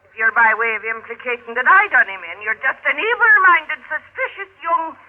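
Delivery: bristling Irish indignation; Irish brogue turning sharp and offended; indignant outburst. Acted. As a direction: take offence, rising. Meg flares at Johnny's implication.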